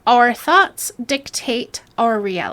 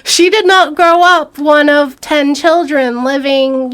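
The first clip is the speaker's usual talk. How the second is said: laughing; 4 semitones higher, 6 dB louder than usual. Real, not acted. Laughing mockery.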